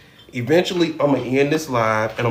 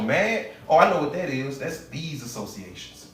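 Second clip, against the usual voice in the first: voice of the subconscious; 2 semitones higher than usual. Acted. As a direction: perk up at the word like it recognizes it. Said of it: "subconscious mind go".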